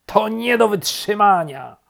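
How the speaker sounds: high, loud outburst; exasperated shout. A narrator's reading. Rabbit shakes off bark, shouting exasperated. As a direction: shout at the end of patience. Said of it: "krzyknął królik".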